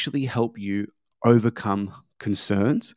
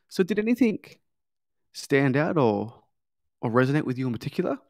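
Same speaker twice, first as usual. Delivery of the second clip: friendly sales question; 2 semitones higher than usual. Shown as a demonstration. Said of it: "you'll then move on to the next question".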